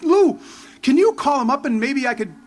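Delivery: Lou called out high, pleading eagerly; eager plea. Retold or imitated. Young quarterback begging his buddy for a sales chance, eager. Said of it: "And I'm like".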